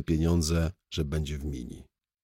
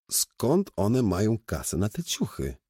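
higher-pitched puzzled question; zdziwienie na głos; 6 semitones higher than usual. Acted. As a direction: wonder aloud in surprise. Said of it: "zdziwiłem się na głos". (zdziwione pytanie na głos)

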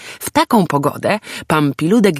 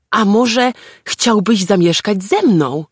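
tender; 5 semitones higher than usual. Acted. Tender offer to homeless animal.

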